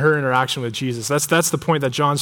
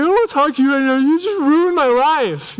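overreacting upset kid; 9 semitones higher than usual. Upset kid lashing out at mom over the dirt bike, hammed-up wailing. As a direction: play up a child's melodrama, whining high. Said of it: "emotional and overreact a little bit".

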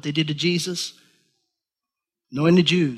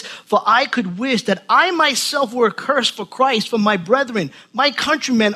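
raised, earnest scripture reading; 3 semitones higher than usual. Acted. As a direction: proclaim the verses to the congregation. Reads scripture aloud in preaching voice.

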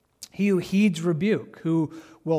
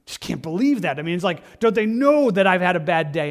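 mock aggrieved complaint, building louder; acted indignation; 2 semitones higher, 6 dB louder than usual. Someone stung by a rebuke complaining, mildly indignant. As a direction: build to an offended protest. Acting offended reaction to correction.

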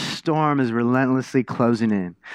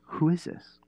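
awed hush; 4 semitones higher, 7 dB quieter than usual. Retold or imitated. Disciples in awe.

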